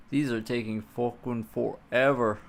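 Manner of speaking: a light put-on New Zealand accent. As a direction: try a Kiwi accent, tongue in cheek. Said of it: "my best, uh, New Zealand impression".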